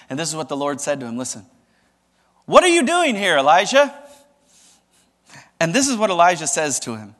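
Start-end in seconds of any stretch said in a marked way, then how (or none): 2.5-3.9 loud and high, a thundering call; booming divine question. Acted. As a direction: call out like a voice from heaven. The Lord questions Elijah.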